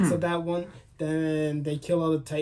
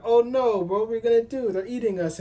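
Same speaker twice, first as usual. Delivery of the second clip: higher, louder hammed-up panic; mock panic; 7 semitones higher, 3 dB louder than usual. Recapping the show to friends, a mock-panicked crowd cry. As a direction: play the panicked crowd for laughs.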